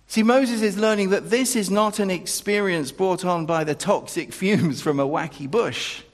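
loud, ringing proclamation of God's constancy; preacher lifting the room; full-force preaching. Acted. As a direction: drive every line home to the congregation. Preaching climax.

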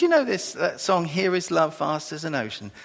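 a light imitated Chinese accent. Preacher quoting Chinese student asking about the hymn, light Chinese accent. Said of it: "she was saying it in a Chinese accent".

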